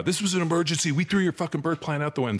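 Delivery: high, mocking voice of a defensive doctor. Father mocks the doctor who threw out his birth plan, in a high mocking voice. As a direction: sneer it back like the doctor did. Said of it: "and he was like".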